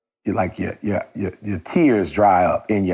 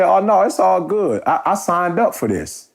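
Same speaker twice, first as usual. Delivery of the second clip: mock chipper server; 8 semitones higher than usual. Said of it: "She said".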